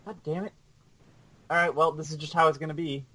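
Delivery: distant, off-mic voice; speaking from far off. Real, not acted.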